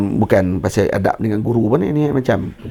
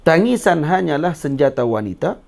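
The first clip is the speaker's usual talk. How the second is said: slow, measured recitation of a verse; recited verse. Shown as a demonstration. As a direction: recite it like a lesson to pass on. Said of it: "Ha, cara tu". (deklamasi perlahan seperti syair)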